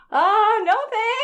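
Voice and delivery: high, squeaky mock refusal; high-pitched imitation turning down a stranger; polite brush-off. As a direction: brush her off in a high put-on voice. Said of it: "And I was like".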